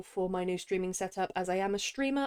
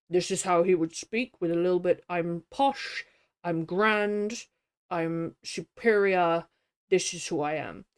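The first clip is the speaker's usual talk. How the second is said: a hint of posh Porthos, lips pushed forward; Porthos voice demo. Shown as a demonstration. Reader demonstrating her Porthos voice, lightly posh. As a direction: lightly show a grand, superior tone. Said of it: "I'm putting Porthos in the front of the mouth".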